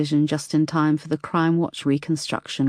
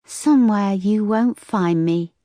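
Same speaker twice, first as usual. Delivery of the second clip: creepy caller; 6 semitones higher, 4 dB louder, slower than usual. A narrator's reading. Caller taunts.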